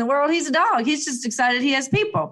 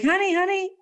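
mom calling; 10 semitones higher than usual. Retold or imitated. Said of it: "she's like".

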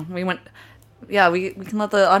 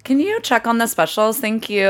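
whiny Kardashian voice; 3 semitones higher than usual. Retold or imitated. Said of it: "it's like".

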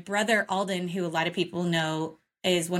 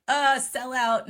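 disgusted; 5 semitones higher, 4 dB louder, slower than usual. Retold or imitated. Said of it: "and you were like".

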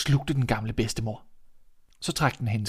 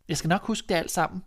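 put-on higher, eager young girl; a sweet little girl promising; 6 semitones higher than usual. Little Red answers.

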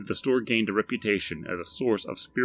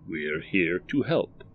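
slow, measured stranger; the stranger reads the shop sign slowly; stranger reading sign; slower than usual. Acted. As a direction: read the sign out slowly and evenly. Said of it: "said the man".

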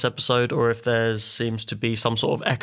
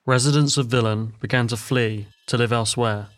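epic fantasy narrator. A narrator's reading. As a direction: tell it like an old legend. Folk tale narration begins.

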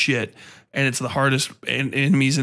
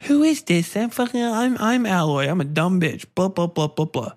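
hammed-up silly woman, trailing into blahs; Aloy; 5 semitones higher than usual. Mocking the game's heroine demanding answers, high silly voice. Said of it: "She's like".

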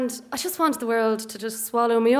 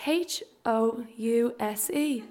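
imitated teacher spelling; 5 dB quieter, slower than usual. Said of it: "just says".

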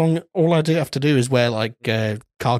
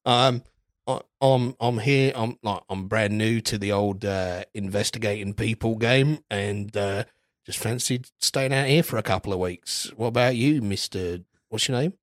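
put-on Australian accent; 3 semitones lower, 5 dB quieter than usual. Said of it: "commitment to the Australian accent".

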